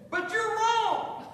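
mock scolding that dissolves into laughter; laughing scold. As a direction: scold him through a laugh. Sarah scolds Abraham, laughing.

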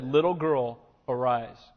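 gentle command. Retold or imitated. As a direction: tenderly lift the girl from death. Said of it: "took the little girl by the hand and said".

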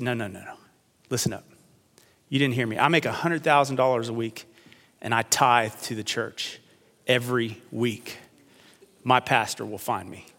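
calm and collected. Retold or imitated. Castaway quietly calms his shipmate about the pastor, soft calm. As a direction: settle him down quietly. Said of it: "calm, cool, and collected".

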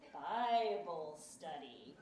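slow, drawn-out mocking question. Husband mocks wife about her study group, mocking. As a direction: needle her about it, stretching the words. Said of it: "he would mock me".

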